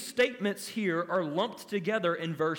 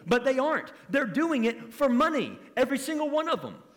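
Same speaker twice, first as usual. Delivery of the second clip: preaching emphasis; 6 semitones higher, 4 dB louder, faster than usual. Real, not acted. Preacher builds to indictment.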